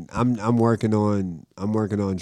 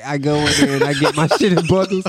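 high, loud, laughing complaint; laughing rant; 10 semitones higher, 5 dB louder than usual. Real, not acted. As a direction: rant while cracking up. Ranting about no bags.

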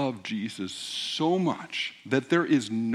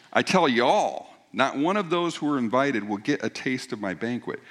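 Southern accent. Shown as a demonstration. Preacher rereading the verse for "y'all", light Southern accent. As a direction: read it with a touch of Southern accent. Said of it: "like, Southern accent".

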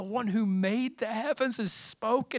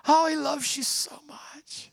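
breathy whisper of the line; tender whisper; 3 semitones higher than usual. Real, not acted. Preacher whispering God's love to the congregation. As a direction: whisper it like a secret.

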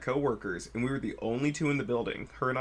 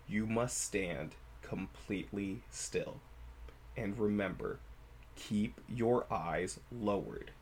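storytelling voice. Shown as a demonstration. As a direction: tell it like a campfire horror tale. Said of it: "Storytelling voice".

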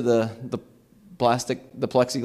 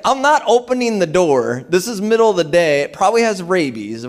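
raised-pitch, protesting retold refusal; mildly alarmed refusal; 4 semitones higher than usual. Father refusing to open up to a raccoon, mildly alarmed. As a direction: protest with a touch of mock alarm.

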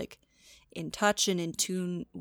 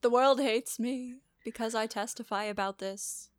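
a touch of mock angst; lightly dramatise the quote; mildly angsty; 3 semitones higher than usual. Reading Jesus's words from her notes, mildly angsty. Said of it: "It just felt a little angsty".

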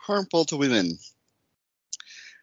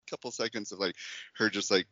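whispering; 8 dB quieter, faster than usual. Retold or imitated. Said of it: "whispering to him".

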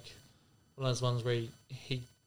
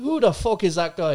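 put-on a touch louder Irish accent, quoting Conor McGregor; cocky Irish accent, repeating the line; 5 semitones higher, 5 dB louder than usual. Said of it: "you can only do it in that accent".

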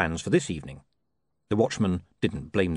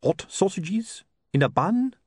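slow, higher, hopeless pitch; 10 semitones higher, slower than usual. Acted. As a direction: sell sausages with no hope left. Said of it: "A hopeless sort of voice said".

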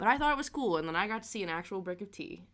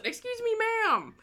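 mock screaming; 14 semitones higher, 5 dB louder than usual. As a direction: mimic a friend yelling at strangers. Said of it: "you're screaming at the people".

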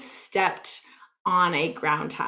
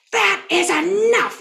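stern command; 10 semitones higher, 6 dB louder, much slower than usual. Retold or imitated. Ordering dog sternly.

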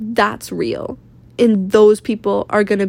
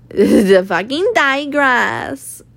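laughing; 3 semitones higher, 3 dB louder, much slower than usual. Real, not acted. Laughing at her own phrase.

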